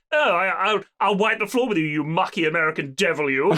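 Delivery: lightly voiced posh officer with a pompous laugh; mildly hammed-up haughty toff; haughty British officer. British officer accepting a fight with an American, lightly voiced haughty bluster. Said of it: "this absolute prick of a British officer".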